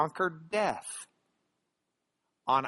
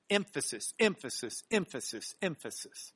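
repeated word, each softer; fading repetition; 6 dB quieter than usual. Shown as a demonstration. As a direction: let each repeat die away like an echo.

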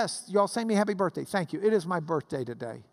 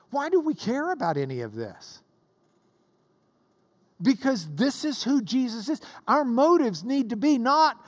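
raised, emphatic pulpit voice; impassioned preaching; 6 semitones higher, 3 dB louder than usual. Real, not acted. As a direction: press the point home to the congregation. Preaches with force.

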